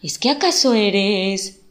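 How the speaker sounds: loud, rising question; near shout. A narrator's reading. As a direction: blurt it out almost shouting. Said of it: "se elevó tanto que pareció un grito".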